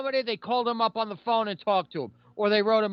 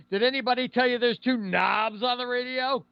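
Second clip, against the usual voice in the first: joke punchline delivery; 5 semitones higher than usual. Retold or imitated. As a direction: deliver the old comic's punchline. Acting out a comedian's joke punchline.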